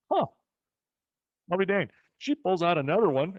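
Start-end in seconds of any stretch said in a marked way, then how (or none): 0.1-1.9 high, loud amazed mutter to himself. Retold or imitated. A boy amazed watching the old woman roll cigarettes. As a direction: marvel out loud at the sight. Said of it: "I'm thinking".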